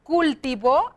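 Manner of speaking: "cultivó" with weight on the last "vó"; stress on final ó. Shown as a demonstration. Teacher finding another accented verb, "cultivó" stressed on the ó. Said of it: "llevan acento".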